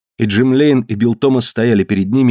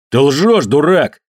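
higher-pitched, moderately heated insult; angry accusing cry; 5 semitones higher, 3 dB louder, slower than usual. A narrator's reading. Tombol jumps up at Jim Lane, narrated angry cry. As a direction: throw the accusation at him. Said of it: "закричал Томбол".

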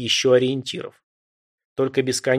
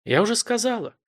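higher, smiling goddess; 8 semitones higher than usual. A narrator's reading. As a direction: smile through the goddess's words. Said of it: "улыбнулась богиня".

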